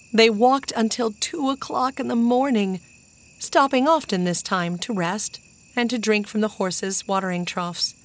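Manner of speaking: ordinary delivery, nothing marked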